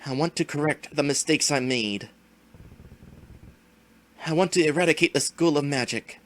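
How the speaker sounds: lightly voiced gloating villain; slow theatrical villain menace. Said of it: "let the villain monologue".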